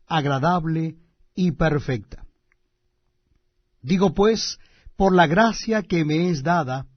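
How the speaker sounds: solemn, measured scripture reading; booming biblical narration. Acted. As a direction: read it like a preacher at the pulpit. Reads Romans chapter twelve.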